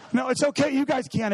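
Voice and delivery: hammed-up passive-aggressive permission; mock passive-aggressive. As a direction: pretend it's fine while sulking. Mocking martyr reassuring friends.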